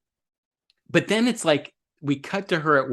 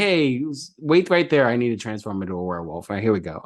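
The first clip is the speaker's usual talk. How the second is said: offhand mock announcement, dropping lower and quicker; no big deal; 3 semitones lower than usual. Mocking the Howling's easy transformation, no big deal. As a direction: toss it off like a routine chore. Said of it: "it seemed like it was no big deal".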